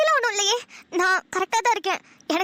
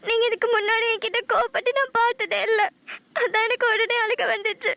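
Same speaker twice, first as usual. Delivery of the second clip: tearful. Acted. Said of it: "அழுதுட்டு இருக்காளே".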